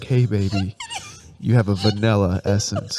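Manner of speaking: sexy voice. Acted. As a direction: play it low and seductive. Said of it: "You're ruining my sexy voice".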